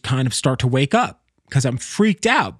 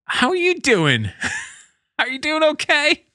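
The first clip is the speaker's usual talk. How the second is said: high-pitched, half-laughing question; giggly check-in; 13 semitones higher than usual. Real, not acted. Host checks on strangers after venting, giggly. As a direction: pitch leaps up, laughter breaking in.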